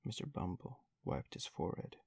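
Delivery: plain reading voice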